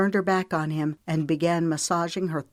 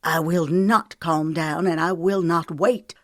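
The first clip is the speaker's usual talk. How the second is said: defiant growl; 4 dB louder than usual. Acted. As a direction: dig in and refuse him. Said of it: "clenched her fists and growled".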